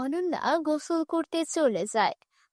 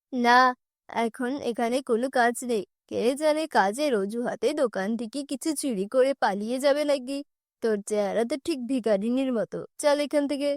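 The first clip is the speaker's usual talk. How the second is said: scornful shopkeeper; 2 semitones lower than usual. Acted.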